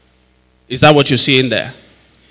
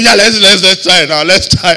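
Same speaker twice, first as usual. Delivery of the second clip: louder, higher, quick repeated urging; eager retold urging; 4 semitones higher, 6 dB louder than usual. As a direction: act out eagerly egging someone on. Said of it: "Then I said".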